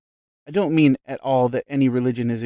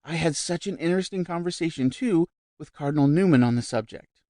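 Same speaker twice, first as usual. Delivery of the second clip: high, lively chatter; lightly voiced vivacious society lady; 6 semitones higher, 3 dB louder than usual. A narrator's reading. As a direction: bubble over with news. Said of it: "went on the other vivaciously".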